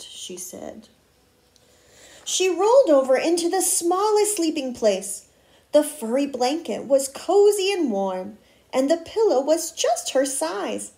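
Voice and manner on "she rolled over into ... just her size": put-on expressive read-aloud to children; story narration. A narrator's reading. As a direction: read a picture book with lively word emphasis. Reads a picture book aloud.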